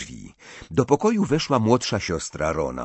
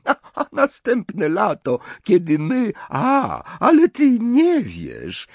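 put-on high, louder French-accented exclaiming; Fleur, excited foreigner; 14 semitones higher, 6 dB louder, slower than usual. A narrator's reading. Fleur realises Harry has not heard the news, excited. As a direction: burst out with sudden realisation, lilting.

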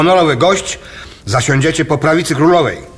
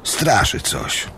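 szept; 6 semitones lower, 6 dB quieter than usual. Acted. Ghost tale confided.

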